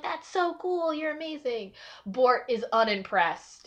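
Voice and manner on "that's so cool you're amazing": much higher, starstruck "That's so cool"; gushing fans. Retold or imitated. Amethysts gushing over Minty's fighting, excited. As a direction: fawn over the hero.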